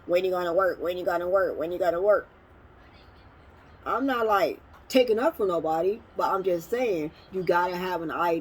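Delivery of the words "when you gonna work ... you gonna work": mock nagging. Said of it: "Everybody talk about".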